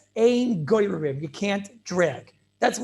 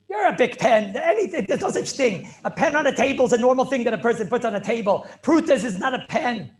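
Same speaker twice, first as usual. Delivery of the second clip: worked-up protest, pitched up a little; getting emotional; 3 semitones higher, 4 dB louder than usual. Real, not acted. Teacher objecting to the sefer's claim about a pen, getting emotional. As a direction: argue it heatedly, with rising force. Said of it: "okay, I'm getting emotional".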